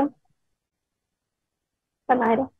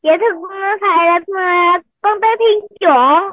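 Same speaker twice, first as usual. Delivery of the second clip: loud; 6 semitones higher, 5 dB louder, slower than usual. Real, not acted. Child repeating name loudly.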